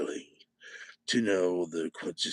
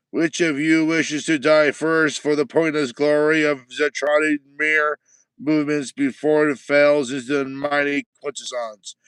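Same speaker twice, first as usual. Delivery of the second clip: loud, higher commanding war judge; war judge threat; 4 semitones higher, 10 dB louder than usual. Acted. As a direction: bellow like a judge who lives for war.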